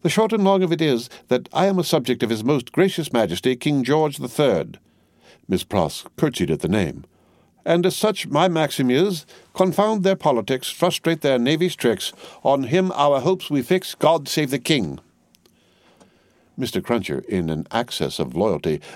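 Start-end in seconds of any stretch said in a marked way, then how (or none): 0.0-4.8 higher, brisk English spinster; bustling, bossy housekeeper; Miss Pross voice. A narrator's reading. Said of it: "nodding her head emphatically". 7.6-15.0 higher, brisk English spinster; bustling, bossy housekeeper; Miss Pross voice. A narrator's reading. Miss Pross reciting anthem.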